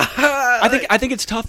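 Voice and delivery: talking through laughter; high, laughing words. Real, not acted. Still laughing after the joke.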